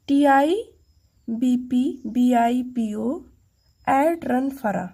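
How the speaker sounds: slow, letter by letter, first letter punched; slow and spelled out. Shown as a demonstration. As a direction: break the mnemonic into slow chunks. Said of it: "फास्ट कैसे बोलेंगे?". (धीरे-धीरे टुकड़ों में)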